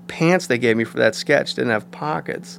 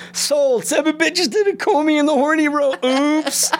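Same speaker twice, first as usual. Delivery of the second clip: much higher goofy flubbed line; high mock Farley then a cheeky oops; 14 semitones higher than usual. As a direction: blurt the botched line like Chris Farley. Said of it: "And he goes".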